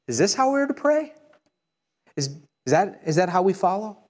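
normal talking voice

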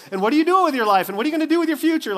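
high, loud and rushing scolding; scolding lecture. Retold or imitated. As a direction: mom lecturing teens about their future. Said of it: "she starts going on".

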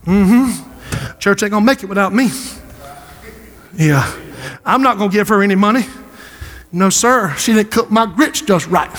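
a hint of a sulky churchgoer, low and quick; mock the offended member, lightly; grumpy church member. Pastor mocking an offended member to the church, sulky mumble.

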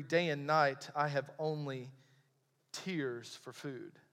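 low and hushed, fading away; subdued lament. Acted. Preacher quotes the psalmist living on tears, hushed and low. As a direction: drop right down, slowing on the last words.

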